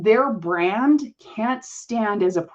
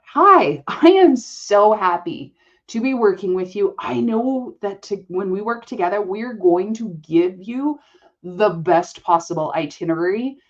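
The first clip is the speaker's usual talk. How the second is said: confident, upbeat pitch. Retold or imitated. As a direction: sell it like you own the room.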